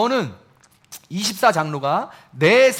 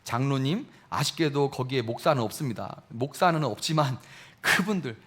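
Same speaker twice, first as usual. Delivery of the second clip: normal talking voice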